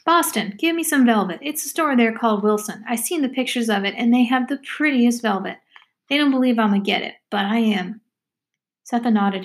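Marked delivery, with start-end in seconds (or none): 0.0-8.0 put-on a touch of backwoods girl, set on velvet; talkative country girl, dreamy. Voices Amy, the girl.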